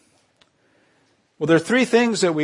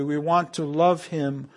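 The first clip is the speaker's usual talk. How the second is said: slow and softer, "love" gently stressed; tender repeat, softer; softer, sincere; slower than usual. Shown as a demonstration. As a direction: draw them in quietly. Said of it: "listen to me carefully".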